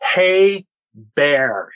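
mild mock yell, drawn out in two beats; retold yell. Storyteller yelling up at the creature, retold yell. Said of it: "and I yell".

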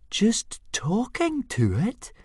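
very high, slow, incredulous echo; astonished gasp. A narrator's reading. Fishlegs echoes Hiccup's admission, gasping in astonishment. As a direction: repeat it in high-pitched disbelief. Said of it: "gasped Fishlegs in astonishment".

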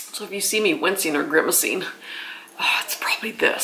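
words a bit slurred from numbness; numb mouth. Real, not acted. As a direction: speak through a numb jaw. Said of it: "if I'm slurring a little bit".

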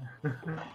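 quiet short laugh; soft chuckle. Real, not acted. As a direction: chuckle softly to yourself. Laughs after own mock advert.

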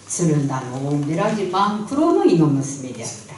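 Tsugaru folk tale narration; thick tsugaru dialect. A narrator's reading. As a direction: tell it like an old village storyteller. (津軽弁の昔話の語り)

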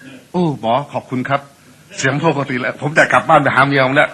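normal voice. Retold or imitated. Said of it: "เสียงปกติเลยนะ".

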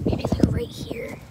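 slow whispered musing. Real, not acted. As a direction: breathe it out while thinking. Whispered aside while placing camera.

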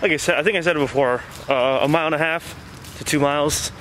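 muffled mouth covered by cloth; talking outdoors while walking masked; speaking through a face mask. Real, not acted. Seen 1: Black cloth mask covers mouth and nose throughout; references unmasked.

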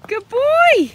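high, loud call of praise; praise shout. Real, not acted. Owner calling praise to her horse from afar, shout. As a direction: yell it across the field proudly.

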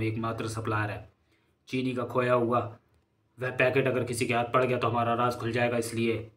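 low-key, softly spoken gang boss; crime boss. Acted. Drug boss briefing his gang about the lost sugar packet, quiet and controlled.

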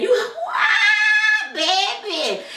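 high laughing shriek of surprise; shocked delight. Acted. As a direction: squeal at his new teeth, delighted. Shocked by Grady's new teeth.

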